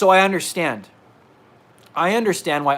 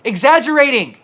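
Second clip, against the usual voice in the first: scoffing disbelief; 8 semitones higher, 7 dB louder than usual. Real, not acted. Scoffing at critics who call him exaggerating, outraged disbelief. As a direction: repeat the word with outraged scorn.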